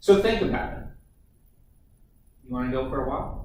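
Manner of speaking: friendly, inviting, easygoing delivery. Demonstrating a line reading for another actor in rehearsal, friendly. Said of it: "And be like friendly about it".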